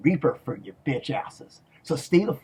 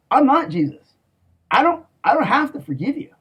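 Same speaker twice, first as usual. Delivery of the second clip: higher, louder furious yell; angry outburst; 9 semitones higher, 4 dB louder than usual. Real, not acted. Yelling at his enemies that he won't forgive them. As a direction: flare up, refusing to forgive.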